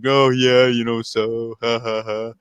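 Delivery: lightly imitated chuckling commentator; a mock laugh, easygoing and trailing off; Michael Cole laughing. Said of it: "You heard him laughing".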